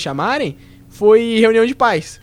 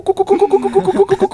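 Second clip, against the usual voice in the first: mock laugh; 8 semitones higher than usual. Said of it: "Que era a risada".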